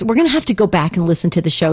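ordinary talk, nothing marked

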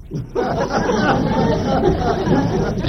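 a bright laugh breaking out; real laugh at the punchline; amused laugh. Real, not acted. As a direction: laugh at the memory. Laughing at the story.

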